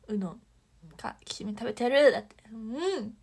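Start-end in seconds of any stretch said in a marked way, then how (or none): 0.1-2.1 mock boast shout. Quotes a friend's boast, "だって.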